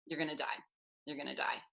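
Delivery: low, soft, fast menacing murmur; ominous low murmur. Retold or imitated. Voicing the brain's final threat in a low ominous murmur. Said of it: "it would literally be like".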